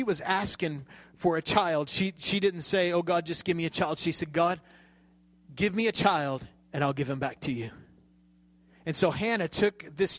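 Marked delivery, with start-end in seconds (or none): 2.9-4.0 quick, run-together mock prayer; hurried imitation of a simple plea; offhand retold plea. Contrasted careless version of prayer. 4.3-7.7 measured plea, pausing after God, sinking lower at the end; understated, sincere vow to God; earnest retold prayer. Contrasted true version of prayer.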